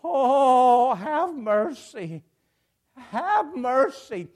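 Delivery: drawn-out, loud "oh", then slow plea; mock desperate wail easing into begging; crying out. Blind beggar begs Jesus for mercy, crying out. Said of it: "he starts crying and screaming".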